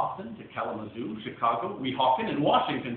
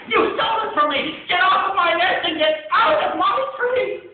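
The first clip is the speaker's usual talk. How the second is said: angry sputter; 10 dB louder than usual. Acted. Maisie demands the egg back, loud furious sputter. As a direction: spit it out in outrage. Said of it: "she sputtered".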